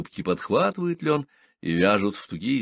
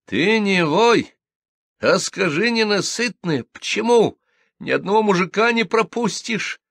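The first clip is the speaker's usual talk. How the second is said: furious scolding; 12 semitones higher, 5 dB louder than usual. A narrator's reading. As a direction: lay into her shaking fists. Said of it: "Размахивая кулаками, наступала на неё Ленка".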